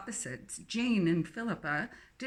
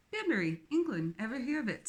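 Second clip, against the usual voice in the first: put-on strong English accent; 4 semitones higher, faster than usual. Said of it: "her English accent strong".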